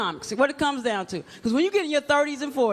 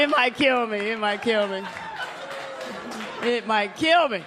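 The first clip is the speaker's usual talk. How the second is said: mock fearful mumble; 4 semitones lower than usual. Fearful repeated muttering.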